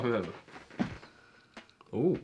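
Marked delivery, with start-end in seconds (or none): 1.9-2.2 nose whistles on the breath; whistling nose. Real, not acted. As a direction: let the nose whistle faintly. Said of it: "Did you just see my nose whistling?".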